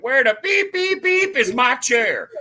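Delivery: lightly hammed-up diva calling for her chair; imitating a sassy comedian. Retelling Miss June onstage, mock demanding. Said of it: "she's like".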